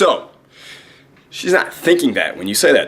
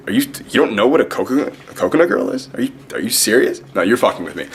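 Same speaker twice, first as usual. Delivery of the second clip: mock-incredulous, pitched up then settling; feigned shock; 3 semitones higher than usual. Shown as a demonstration. Teasing a girl who doesn't know the term, feigned shock. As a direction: play shocked disbelief, as if it can't be true. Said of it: "feign, you know, uh, despair".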